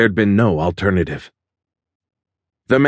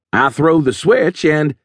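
menace; 6 semitones higher than usual. A narrator's reading. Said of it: "the menace in the guy's tone".

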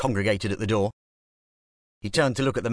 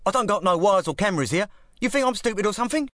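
much higher, fast East London scoff; 11 semitones higher, 3 dB louder, faster than usual. A narrator's reading. Club boss mocking gangster's fear of wires, East London scoff.

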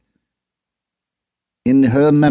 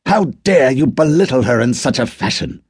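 much higher, louder enraged outburst; furious shout; 12 semitones higher, 3 dB louder than usual. Acted. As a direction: whisper yelling rising to a furious cry. Arthur's furious retort.

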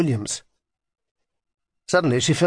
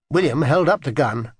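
usual speaking voice

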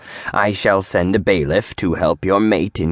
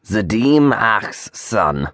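slow, stern and formal; 4 semitones higher, slower than usual. Acted. Provost rebukes an overfamiliar old friend, sternly. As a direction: hold him at arm's length. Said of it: "said Huo sternly".

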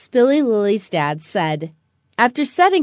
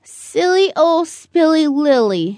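put-on higher, small child's voice; little girl's voice; 5 semitones higher than usual. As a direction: say your own nickname as the little girl. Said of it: "she said".

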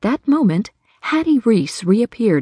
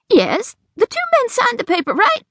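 high, anxious seeking reassurance; hope he says yes; worried question. Acted. Hattie asks the sheriff for reassurance, worried.

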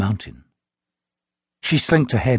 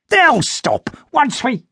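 higher, firmer second voice; lightly voiced companion; 14 semitones higher, slower than usual. A narrator's reading. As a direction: companion Vampanese drags him away, speaking higher and firmer. Voice cut off, fading away.

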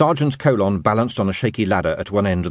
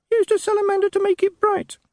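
tiny parroting voice. Acted. Imp reciting rules to the sergeant, tiny squeaky voice. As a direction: recite the lesson like a tiny pupil.

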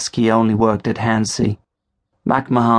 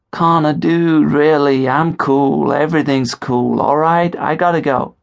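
a touch higher, hurried reassurance; lightly voiced friend; 6 semitones higher than usual. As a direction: brush it off. Leo voiced on phone.

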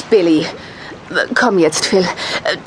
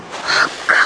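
frightened gasp; 5 dB quieter than usual. Acted. Fearing the boy is hurt.

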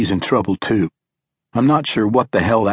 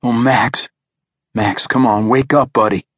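distressed pleading; 2 semitones higher than usual. A narrator's reading. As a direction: plead with your unconscious son, anxiously. Father rousing his unconscious son.

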